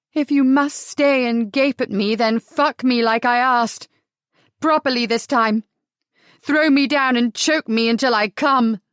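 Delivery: put-on defiant drunk demand; drunken demand.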